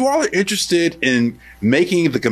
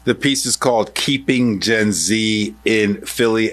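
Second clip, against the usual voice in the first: slow, measured announcer read; slower, formal presenter voice; radio host sign-off; 6 semitones lower, slower than usual. Real, not acted. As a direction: wrap up the interview with a deliberate on-air credit. Radio host's closing credit read.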